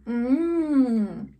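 humming while chewing. Real, not acted. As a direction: mouth full of chocolate. Seen 0: Woman's cheek bulges and her lips stay closed, chewing chocolate during "Mm.

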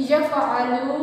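"यफ़अलु" with the final ू sound held long; long final vowel. Shown as a demonstration. Teacher showing wav madda to class three, long final u in "यफ़अलु". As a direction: recite "यफ़अलु", stretching the last u for one alif. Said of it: "एक अलिफ के बराबर लंबा करेंगे".

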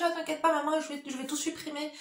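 voix d'ado plus aiguë, désinvolte; fille rassurante. Retold or imitated. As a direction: imiter la fille qui rassure sa mère. La fille répond, voix rejouée. (la fille rassure maman, voix d'ado légère)

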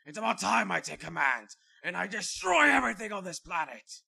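power up scream. Acted. Villain about to destroy planet.

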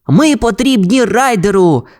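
high, eager puppy voices; pups' exclamation. A narrator's reading. Pups answer Ryder's alarm, high excited cry. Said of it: "вигукнули щенята".

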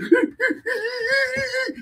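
high, drawn-out jeering giggle; mocking laugh. Real, not acted. Fan jeering at the penalty taker's skip, mocking laugh. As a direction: giggle tauntingly as it goes on.

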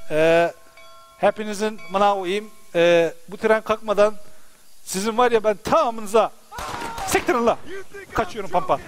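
ordinary talk

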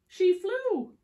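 high, loud laughing; laughing delight. A narrator's reading. Storyteller laughing as the bird takes off. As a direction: burst out laughing on it. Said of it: "whoa, laughs".

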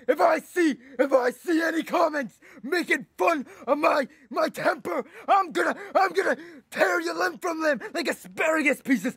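mock angry threat. Threatens commenters over his temper.

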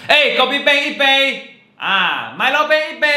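high call across the shop; loud calling out. Shown as a demonstration. Customer shouting a drinks order at the coffee shop, high and loud. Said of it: "这个就是说话很大声".

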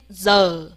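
z as a slow, low, buzzing "zuh"; 字母发音示范. Shown as a demonstration. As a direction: draw out z with no tongue curl. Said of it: "我们念z". (不卷舌，低而慢地念z)

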